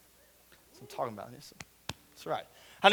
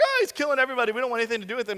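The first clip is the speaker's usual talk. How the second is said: slightly raised, mildly panicked voice; a touch of mock panic; mock freaking out; 3 semitones higher, much faster than usual. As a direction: imitate scared soldiers, lightly hammed-up. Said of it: "freaking out".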